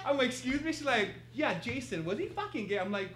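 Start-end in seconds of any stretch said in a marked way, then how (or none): 0.3-0.7 high, loud disbelief; shocked. Retold or imitated. A guest stunned by Tyra, high and loud. 1.3-2.8 loud, brash street talk; hood voice. Retold or imitated. Tyra Banks asking bluntly about Jason, brash and loud. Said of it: "the whole hood came out".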